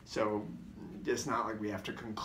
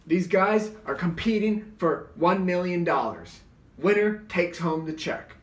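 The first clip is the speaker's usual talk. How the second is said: higher, louder, slow ring announcer; 7 semitones higher, 8 dB louder than usual. Retold or imitated. Referee announcing the match prize, big slow announcer boom. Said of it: "Richard Dunn's the referee".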